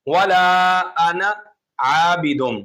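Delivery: measured recitation with held long vowels; Quran recitation. Shown as a demonstration. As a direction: recite the verse slowly and carefully. Recites a Quran verse as example.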